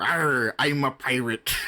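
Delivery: a lightly voiced pirate, barely off the speaker's own voice; tossing off a quick, half-hearted pirate "Arr". Shown as a demonstration. Podcast guest showing the host a voice: light pirate. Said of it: "I can do a pirate".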